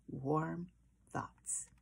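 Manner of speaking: soft whispered ending. Acted. Mother comforting Chester at bedtime, soft whisper. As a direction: breathe the words out softly.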